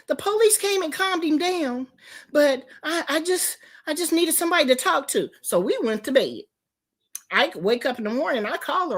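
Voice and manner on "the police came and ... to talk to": imitated meek caller.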